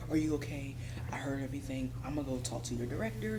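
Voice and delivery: whispered, hushed concern; retold whisper. Charge nurse quietly checking on her, whispered. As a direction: whisper it like a nurse pulling you aside. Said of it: "She pulled me aside".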